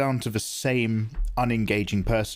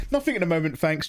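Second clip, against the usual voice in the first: mock polite brush-off; 7 semitones higher, faster than usual. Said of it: "I'm just like".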